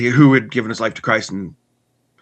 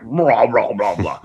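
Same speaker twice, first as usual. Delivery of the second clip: imitated stomach grumble; slower than usual. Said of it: "my stomach just grumbled".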